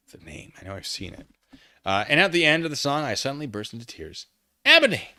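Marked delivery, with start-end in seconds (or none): 4.6-5.1 voicing a friend checking on Ebony, lightly concerned. A narrator's reading. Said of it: "asked in a concerted voice".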